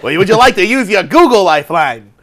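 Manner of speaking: lightly voiced quiz host offering help; mock game show host.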